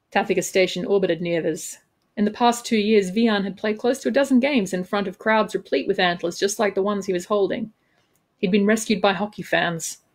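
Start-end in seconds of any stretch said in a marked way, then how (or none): 0.1-7.7 measured, expressive audiobook reading; story narration. A narrator's reading. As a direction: narrate the scene with crisp dramatic phrasing. Author reads own novel aloud.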